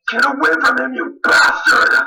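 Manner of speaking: loud, furious snap at the killer; angry shout at the monster; snapped shout. Acted. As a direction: yell him away from your son. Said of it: "I snapped".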